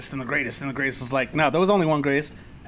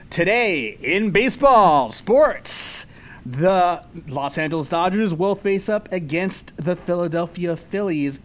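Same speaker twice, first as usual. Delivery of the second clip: sports news read. Acted. Sports segment of mock news.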